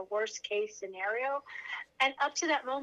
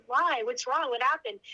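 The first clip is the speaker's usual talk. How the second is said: louder, alarmed questions on waking; 5 dB louder than usual. Retold or imitated. Patient waking in recovery asks nurse, alarmed and louder. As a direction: ask in sudden worry, a touch louder.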